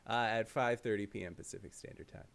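put-on low, quiet old prospector voice. Shown as a demonstration. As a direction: drop low into a grizzled gold miner. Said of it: "watch me be an old prospector who's gonna be doing a voice like this".

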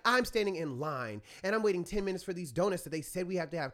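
mildly indignant imitation of a fuming complaint; retold white rage. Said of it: "like, fury, you know, white rage".

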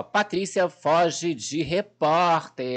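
slow mock headline read; drawn out like a headline; manchete lida devagar. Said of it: "eles noticiaram assim". (lendo manchete devagar, em tom de notícia)

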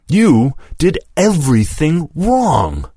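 high, strained voice breaking on the words; voice cracking. Acted. Lewis tells Mason he did everything wrong, voice cracking. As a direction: let the voice crack with hurt. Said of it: "his voice cracking".

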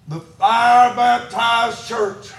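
slow, emphatic preacher's proclamation; said loud. Real, not acted. Preacher repeating a declaration to the church, said loud. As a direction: stretch it out and proclaim it. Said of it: "I'm gonna say this and say it loud".

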